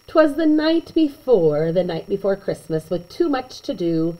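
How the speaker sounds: put-on lively read-aloud to kids; animated picture-book narration; storybook reading. A narrator's reading.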